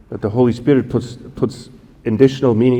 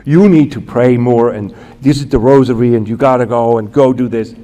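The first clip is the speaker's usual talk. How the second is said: a lightly voiced, louder lecturing boss; mock bossy advice; 4 dB louder than usual. Guard imagines a boss ordering him around, mildly louder. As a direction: lay down the rules, a bit louder. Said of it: "classic male thing to do, is to say".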